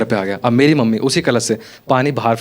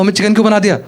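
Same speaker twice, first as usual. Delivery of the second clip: mock yell at mom; 7 semitones higher, faster than usual. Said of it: "मैं चिल्ला गया mummy पे".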